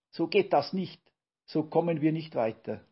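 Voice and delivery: lost patience. A narrator's reading. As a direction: put an end to the chaos. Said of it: "Brausewein riss der Geduldsfaden".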